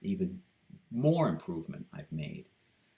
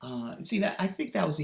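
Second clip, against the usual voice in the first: keeping the high voice; 13 semitones higher than usual. Shown as a demonstration. Vlogger staying in his high trial voice to comment. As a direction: still in the high practice voice, pleased. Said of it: "I wasn't even trying".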